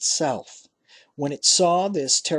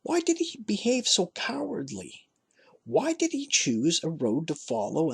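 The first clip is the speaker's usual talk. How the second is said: anguished question; 5 semitones higher than usual. A narrator's reading. Bitter self-question.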